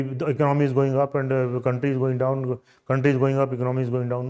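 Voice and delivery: level recital with no word stressed; unemphatic delivery. Shown as a demonstration. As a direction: reel it off on one even note. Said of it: "You are not emphasizing your point".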